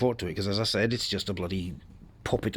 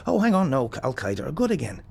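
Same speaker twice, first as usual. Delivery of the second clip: mock sudden realisation; 4 semitones higher than usual. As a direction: play the fake surprise of someone who just got new orders.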